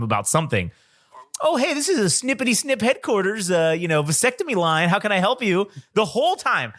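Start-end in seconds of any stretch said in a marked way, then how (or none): 1.4-5.7 mock receptionist greeting. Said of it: "every time I've called him".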